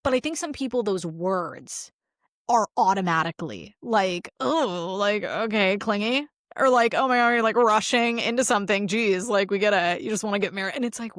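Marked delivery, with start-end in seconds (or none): 4.4-10.8 mock freaked-out reaction. Mocking people freaked by commitment.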